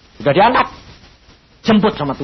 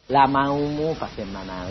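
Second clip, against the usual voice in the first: voice of God, slower; 5 semitones lower, 6 dB quieter, slower than usual. Retold or imitated. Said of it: "Lah, bagaimana Tuhan kayak gitu?".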